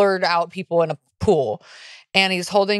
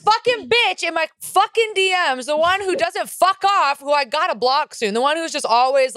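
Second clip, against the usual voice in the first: giddy rant; 8 semitones higher than usual. Real, not acted. Laughing rant about annoying DM sender.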